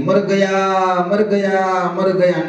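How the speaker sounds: hammed-up cry of pain from the chilies; mock cry of burning pain. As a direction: wail as if your mouth is on fire.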